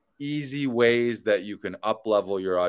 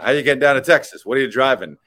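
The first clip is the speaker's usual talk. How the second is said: imitating the Texan; 5 semitones higher, 9 dB louder, faster than usual. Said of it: "he says".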